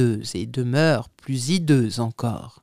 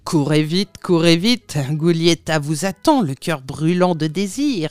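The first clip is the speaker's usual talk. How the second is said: jeering, louder, taunting; mocking call; 4 dB louder than usual. Dappertutto mocks Erasme in the street, jeering loudly. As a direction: throw it mockingly in his face. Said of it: "qui rit au nez d'Erasme et s'écria".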